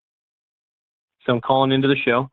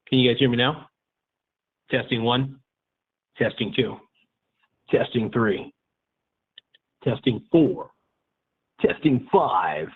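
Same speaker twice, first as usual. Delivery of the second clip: speakerphone audio. Real, not acted. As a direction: through a phone speaker.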